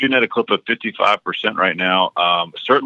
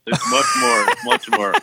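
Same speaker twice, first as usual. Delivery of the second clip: Scorpion voice. Pretend. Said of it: "That sounded like Scorpion from Mortal Kombat".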